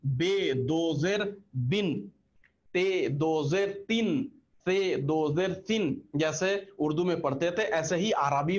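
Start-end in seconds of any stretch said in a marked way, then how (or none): 0.1-6.0 drawn-out syllable drill; deliberate teacher recitation; slow demo reading. Shown as a demonstration. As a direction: slowly sound out each letter with two zer. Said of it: "इसकी आवाज कैसी होगी?".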